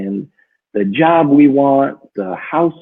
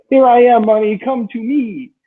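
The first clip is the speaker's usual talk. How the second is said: yelling mantra; 10 semitones higher than usual. Retold or imitated. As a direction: shout it out to the universe. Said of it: "you're just yelling in the car".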